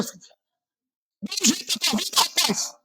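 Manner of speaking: high, strained yell at the listener; shouted rebuke. Shown as a demonstration. Preacher demonstrating how he yells at a sleeping listener. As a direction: cry it out to jolt a sleeper awake. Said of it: "Aí eu falo".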